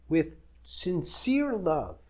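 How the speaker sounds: sincere drawn out slowly with weight; stress on sincere. Shown as a demonstration. Coach telling wives about love, slow emphasis on sincere. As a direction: lean slowly on the word sincere, make it matter. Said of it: "I'm emphasizing the word sincere".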